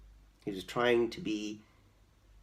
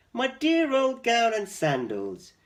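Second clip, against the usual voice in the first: delighted; 10 semitones higher, 6 dB louder than usual. Acted. George delighted by old clothes.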